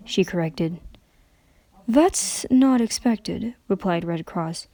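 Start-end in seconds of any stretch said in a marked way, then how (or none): 1.9-3.5 slow, faltering and strained; halting broken voice. Acted. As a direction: struggle to find each word. Twilight's halting reply.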